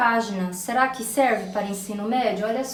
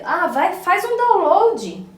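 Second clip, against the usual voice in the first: casual request; 7 semitones higher, 7 dB louder, slower than usual. Pretend. Voiced casual request example.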